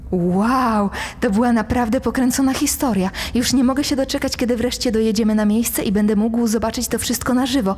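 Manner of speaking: fast, high and eager; excited. Acted. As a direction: rattle it off, bursting with excitement. Excited young passenger voiced.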